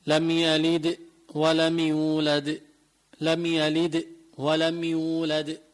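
slow لم يلد ولم يولد with a firm bounced د; slow tajweed, strong echo on the د of يولد; strong final qalqala. Shown as a demonstration. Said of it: "هون أقوى".

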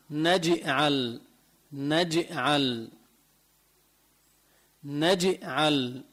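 slow نجعل with the ج bouncing toward i; نجعل, bounced ج with a hint of i; qalqala leaning to kasra. Shown as a demonstration. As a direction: drag out نجعل, the ج echoing slightly toward kasra. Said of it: "ميلة للكسر القلقلة".

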